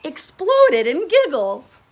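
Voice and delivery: slow giggly narration; giggling. A narrator's reading. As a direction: giggle through the words. Narrator giggles while reading.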